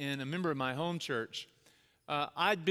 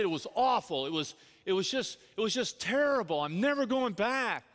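imitating an upset dad, building higher; appalled complaint; 4 semitones higher, 3 dB louder than usual. Dad telling his child about the church visit, appalled. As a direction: start exasperated, build to an emphatic refusal.

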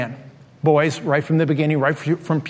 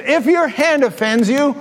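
higher-pitched quote of Jesus' words; raised-pitch scripture recitation; quoting scripture; 7 semitones higher than usual. Retold or imitated. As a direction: recite the saying pitched up, set apart from talk. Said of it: "He says".

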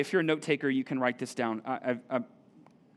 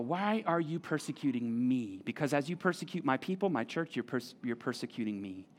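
tender; 5 semitones lower, 7 dB quieter than usual. Acted. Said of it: "Jesus speaks to Saul".

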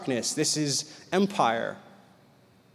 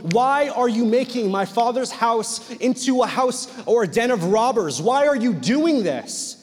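raised, higher voice of outrage, short of screaming; mock furious scream; 4 semitones higher, 3 dB louder than usual. Jesus rebuking the temple money changers, acted fury in a raised voice. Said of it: "starts screaming it and going".

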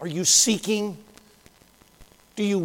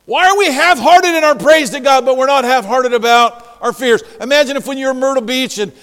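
louder, higher pulpit exhortation; forceful preaching; 6 semitones higher, 7 dB louder than usual. Acted. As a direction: preach it with emphatic punches.

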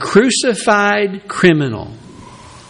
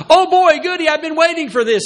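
mock glee; 12 semitones higher, faster than usual. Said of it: "his response is not".

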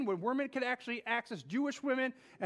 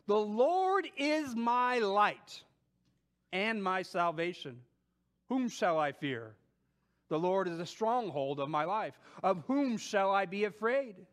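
scripture reading; slower than usual. Acted. Reading Psalm aloud.

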